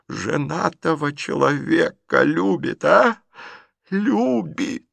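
stunned by the confession; aghast old aunt. A narrator's reading. Aunt exclaiming over Liza's love, slow and high.

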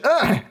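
high, loud pained yelp; high loud cry of pain; howl of pain. Acted. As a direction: yelp as you get hit. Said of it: "Райнер взвыл".

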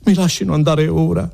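high-pitched plea for release; protesting demand. Acted. Renzo to the policemen holding him, protesting.

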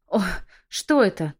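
squeal. Acted. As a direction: yelp in shock at the burning mark. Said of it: "взвизгнула я".

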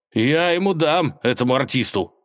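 Ivan, indignant, threatens the artist; angry shout. Acted. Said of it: "крикнул он".

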